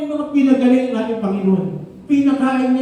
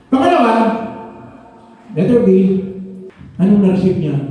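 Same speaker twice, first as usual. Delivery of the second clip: preaching loud; 4 semitones lower, 4 dB louder, faster than usual. Real, not acted. Preacher raising voice to congregation.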